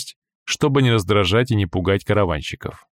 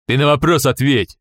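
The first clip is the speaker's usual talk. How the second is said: surly demand; 5 semitones higher, 4 dB louder than usual. Acted. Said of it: "набычился охранник".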